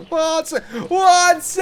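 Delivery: high, loud shout for Watson; frantic calls to the missing companion; calling out. Real, not acted. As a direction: yell into the dark for him.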